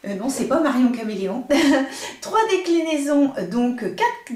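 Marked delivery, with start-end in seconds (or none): 0.1-2.2 laughing at her slip. Real, not acted.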